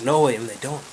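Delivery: lightly voiced Irishman; a plain reply in mild Irish brogue; Irish accent. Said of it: "there's two Irish guys".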